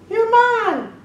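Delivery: high, loud grabbing shout; triumphant cry. A narrator's reading. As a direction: cry out as you seize her. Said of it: "grab her foot and cry".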